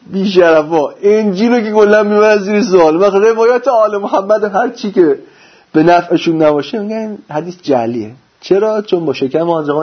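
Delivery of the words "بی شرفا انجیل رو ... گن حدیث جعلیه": indignant, raised-pitch rebuke; برآشفته. Real, not acted. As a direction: scold the dishonest deniers, louder and higher. Indignant rant at scripture deniers. (با عتاب و صدای بلندتر)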